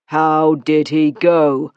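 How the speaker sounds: very slow, barely enough air; man near strangling on his words; breathless, strangled. Acted. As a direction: choke the words out. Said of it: "voice so ill-supplied with breath".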